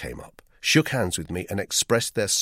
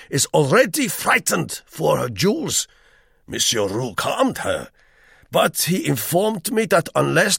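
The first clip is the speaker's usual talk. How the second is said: weighty German guest; 12 semitones higher, 8 dB louder than usual. A narrator's reading. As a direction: pronounce every word with heavy importance. Herr Vogel holding forth.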